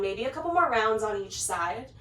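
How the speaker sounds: slightly winded while instructing; out of breath. Real, not acted. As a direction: talk through light breathlessness. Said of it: "if I'm feeling a little bit out of breath".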